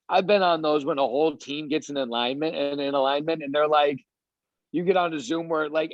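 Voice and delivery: normal talking voice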